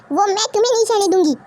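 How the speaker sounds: words pushed out through tears; crying mother. Acted. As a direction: she fights back sobs to protect her daughter. Mother tearfully defends hurt daughter.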